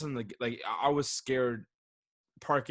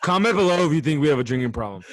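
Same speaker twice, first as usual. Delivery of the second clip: laughing; 7 dB louder, faster than usual. Real, not acted. Laughing outro call to viewers.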